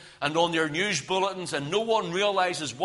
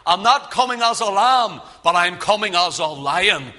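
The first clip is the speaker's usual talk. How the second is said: war cry; 5 dB louder than usual. Acted. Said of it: "and it's a war cry".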